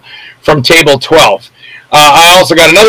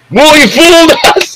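high, lightly voiced guest, relieved; relieved crowd; 12 semitones higher than usual. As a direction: play the crowd letting out a breath. Crowd relieved after the joke.

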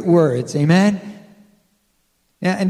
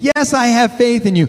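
eager hiker; 5 semitones higher, 4 dB louder than usual. Retold or imitated. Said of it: "the voice says".

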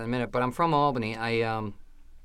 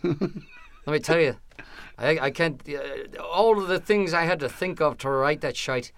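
put-on Irish accent; 2 semitones higher, slower than usual. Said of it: "It's the Irish accent".

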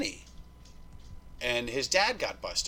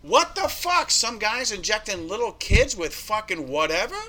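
much higher and louder, indignant; outraged; 7 semitones higher, 6 dB louder than usual. Real, not acted. Telling the hosts about the fake doctor and kids, outraged.

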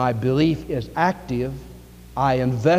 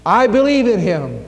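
joyful realization; 9 semitones higher, 7 dB louder than usual. Acted. Dying boy telling the sergeant he believes, swelling joy. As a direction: let the discovery swell into a cry of faith.

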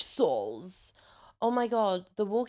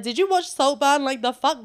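mock scolding the cat; 5 semitones higher, 7 dB louder than usual. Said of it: "and I said to him".

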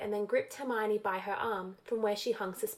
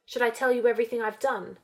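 careful drawl; 4 dB louder, faster than usual. Acted. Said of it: "in a careful drawl".

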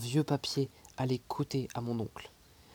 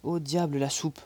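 louder, irritated professor; angry outburst; 4 dB louder than usual. Acted. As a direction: snap it out in annoyance. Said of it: "s'écria mon oncle".

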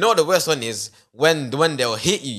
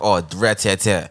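imitating a scolding mom, much lower; a low mock-mum voice, pretending to mishear; 9 semitones lower, slower than usual. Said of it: "and be like".

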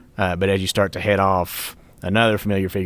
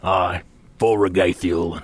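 rousing toast; 4 dB louder, slower than usual. Acted. Toast to a shared cause.

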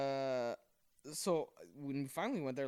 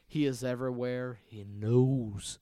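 put-on old English priest; 8 dB louder, slower than usual. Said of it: "He's like an old Englishman".

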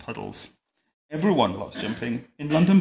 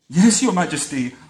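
put-on higher, louder children's chorus; cowering; 4 semitones higher, 7 dB louder than usual. A narrator's reading. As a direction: answer up with a touch of fright.

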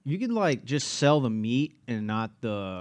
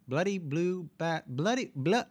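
put-on high, faltering British accent; attempted British accent; 7 semitones higher than usual. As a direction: stumble through it in mock British. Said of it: "The British accent".

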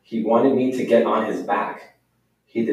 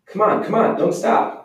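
cheering on; 9 semitones higher than usual. Acted. Boy cheering pony across plank.

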